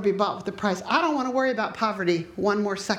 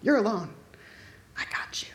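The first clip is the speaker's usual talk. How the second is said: menacing whisper; 4 dB quieter than usual. Retold or imitated. Fear's voice taunting her.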